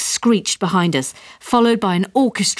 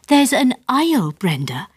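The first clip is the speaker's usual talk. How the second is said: astonished; 6 semitones higher than usual. A narrator's reading. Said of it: "he said, astonished".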